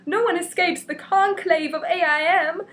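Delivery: high, loud menacing villain declaration. Acted. Reading a comic to viewers, villain proclaiming doom. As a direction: announce it like a pompous comic-book villain.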